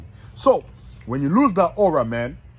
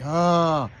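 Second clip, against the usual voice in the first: gloating devil; 4 dB louder than usual. Acted. Devil gloats over the man who opened the door, hammed-up. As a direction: crow like a devil who has caught his prey. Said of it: "Now the devil like".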